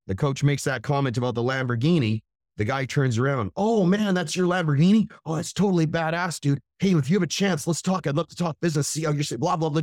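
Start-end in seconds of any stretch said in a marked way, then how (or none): 3.5-9.8 higher, eager, gushing flattery; mock the guy suddenly kissing up; fawning suck-up. Rude seminar guy suddenly fawning over the Lamborghini owner, gushing mock flattery. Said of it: "kissing my ass".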